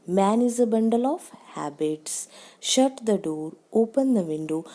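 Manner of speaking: "habits", "door" and "window" each falling in pitch. Shown as a demonstration. Teacher reading normal statements and commands as examples, falling tone. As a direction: let each sentence drop on its last word, "habits", "door", "window". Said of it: "ये सारी following tones हैं".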